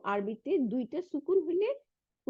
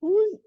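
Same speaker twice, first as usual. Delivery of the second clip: whose said high and loud, rising; stressed whose; 9 semitones higher, 9 dB louder than usual. Shown as a demonstration. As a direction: hit the word whose hard. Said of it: "who, whose".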